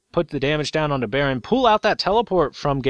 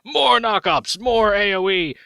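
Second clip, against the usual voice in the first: slow evil cackle then glee; gleeful villain laugh; slower than usual. Pretend. QG gloating as Fnatic gets caught, slow evil laugh. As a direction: cackle over the knockups. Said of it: "the rest of QG are like".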